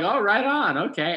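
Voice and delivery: high, loud startled brush-off; awkward surprise. Retold or imitated. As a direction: caught off guard, cover it up. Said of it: "I was just like".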